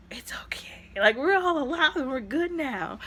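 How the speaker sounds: comforting whisper. Retold or imitated. Comforting sister retold.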